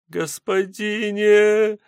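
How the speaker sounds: very high, slow drawn-out cry; a weak, drawn plea from the mud; feeble cry. A narrator's reading. A half-drowned girl crawling out, calling to the sotnik weakly. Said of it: "выползшее из кустов существо".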